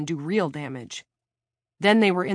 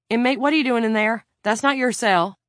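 loud, higher officer's challenge; calling from afar; 6 semitones higher, 7 dB louder than usual. A narrator's reading. Officer challenging an inmate in the wrong cell, calling out. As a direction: call out sharply down a corridor. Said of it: "from down the hallway".

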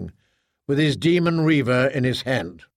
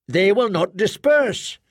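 higher, slow, otherworldly voice; measured, strange inner voice; slow alien squad mother; 6 semitones higher than usual. Acted.

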